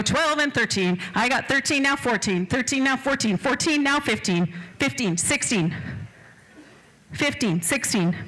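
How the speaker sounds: quick rolling auctioneer chant; auctioneer bid calling. Acted. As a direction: rattle off the bids to keep the room going.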